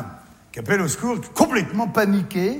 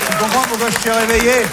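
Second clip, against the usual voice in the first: put-on possessed girl; 6 semitones higher, 4 dB louder, faster than usual. Demon voice in room.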